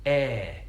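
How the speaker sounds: "air" drawn out with a widened mouth; elongated diphthong. Retold or imitated. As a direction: stretch "air" wide, East Midlands style. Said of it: "he kind of elongates it and he sort of widens the mouth".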